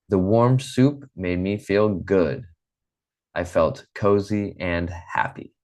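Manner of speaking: slow, clear reading for learners; story read aloud. Shown as a demonstration. Teacher reading a short story slowly to her students. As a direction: read it out slowly like to a language class.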